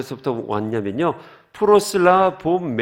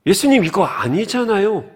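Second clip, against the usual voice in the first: higher, louder indignant protest; Peter protesting; 6 semitones higher, 6 dB louder than usual. Retold or imitated. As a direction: push back at Jesus, raised voice. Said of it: "오늘 같으면 이렇겠죠". (높고 큰 목소리로 항의)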